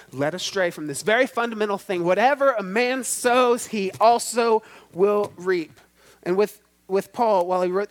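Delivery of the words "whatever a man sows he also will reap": proclaimed verse. Acted.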